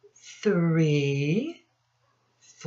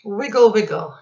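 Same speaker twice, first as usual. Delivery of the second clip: put-on a louder, bouncy cheer to the kids; playful wiggle call; 3 semitones higher, 7 dB louder, much faster than usual. Teacher urging children to wiggle all their fingers, playful and louder. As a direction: call it out to get them wiggling.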